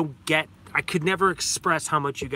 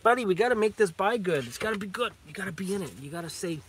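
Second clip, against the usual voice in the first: coaxing the dog; 4 semitones higher, faster than usual. Real, not acted.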